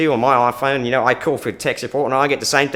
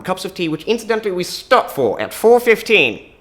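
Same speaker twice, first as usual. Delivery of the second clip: high English accent, slowing and swelling to a loud finish; emphatic English accent; 7 semitones higher, 4 dB louder than usual. Shown as a demonstration. Englishman announcing the tea break, high emphatic English accent. English character insisting on teatime.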